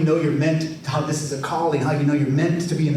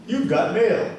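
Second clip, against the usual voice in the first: AOL voice; 3 semitones higher, slower than usual. Retold or imitated. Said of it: "Generation X, right? Nineties".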